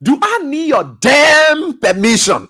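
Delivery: mocking arrogant quote. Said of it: "Then he continues and says".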